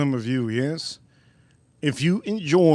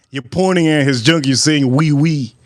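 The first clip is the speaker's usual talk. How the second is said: loud accusation; 5 dB louder than usual. Acted. Acted waiter accuses the customer.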